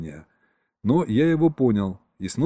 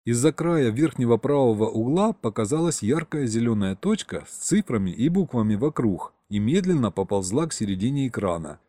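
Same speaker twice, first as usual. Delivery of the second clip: usual speaking voice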